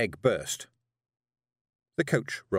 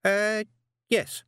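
high, louder flustered witch; startled, high yes; nervous witch; 13 semitones higher, 5 dB louder than usual. Acted.

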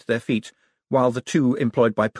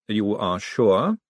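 Vetinari; much slower than usual. Acted. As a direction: press him gently, slowly.

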